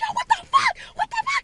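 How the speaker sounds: very high, piercing, shrill screaming outburst. Telling how somebody grabbed the speaker's elbow, retelling a scream. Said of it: "So I'm screaming".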